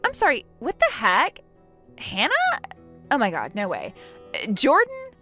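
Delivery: high, incredulous questions; stunned and halting, pitch leaping up; shocked disbelief. Acted. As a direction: react as if it can't be true. Opal learns who is meant.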